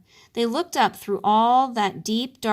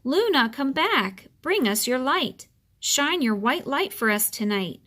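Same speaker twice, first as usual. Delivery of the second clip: calling out; 4 semitones higher than usual. Acted. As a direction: call to the lost moon across the sky.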